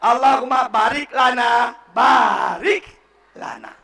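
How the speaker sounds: baarik lana said clearly; correct recitation. Shown as a demonstration. (bacaan benar)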